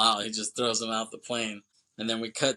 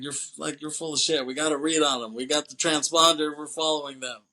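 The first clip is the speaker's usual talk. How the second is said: higher-pitched mock insistence; dismissive arguing; 4 semitones higher than usual. Malloy refusing to listen to Larkin, dismissive. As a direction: imitate a stubborn rebuttal.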